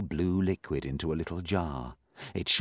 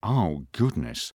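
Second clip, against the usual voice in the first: groan; slower than usual. Acted. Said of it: "groaned Moonface".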